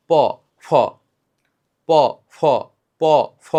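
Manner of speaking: প plain, ফ with a loud burst of air; aspiration demo. Shown as a demonstration. Teacher repeating প and ফ so students feel the air. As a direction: alternate প and ফ, blowing hard on ফ. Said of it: "বাতাস বেশি বের হয় কোনটাতে?".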